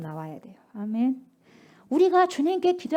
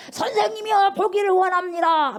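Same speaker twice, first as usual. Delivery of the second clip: pleading beggar; 8 semitones higher, 4 dB louder than usual. Acted. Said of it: "막 그래요".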